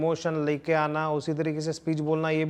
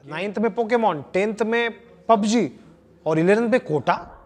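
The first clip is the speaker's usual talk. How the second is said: higher, amused taunt breaking into a long laugh; laughing mockery; 4 semitones higher, 4 dB louder than usual. Shown as a demonstration. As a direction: make fun of them, then burst out laughing. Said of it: "आप हंस के मजाक ले उसकी". (हँसते हुए मज़ाक उड़ाना)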